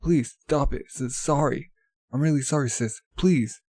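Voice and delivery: hammed-up apology under blows; mock pleading. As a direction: play a beaten brother begging his sister. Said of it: "He's, like, getting wailed on".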